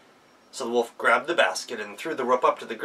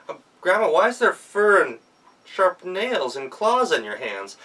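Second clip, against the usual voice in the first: put-on hesitant child; 7 semitones higher, 4 dB louder than usual. Girl nervously asks about claws.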